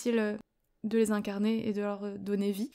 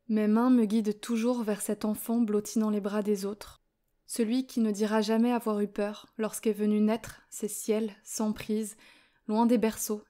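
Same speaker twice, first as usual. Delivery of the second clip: urgent reading. Shown as a demonstration. Reader showing Constantine's urgent writing in a first take, urgent poem reading. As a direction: read the poem briskly, keeping the urgency up. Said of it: "c'est une première lecture".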